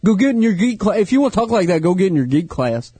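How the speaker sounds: mock a hometown friend in a Tennessee accent; old Tennessee accent. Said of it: "That's sort of the accent".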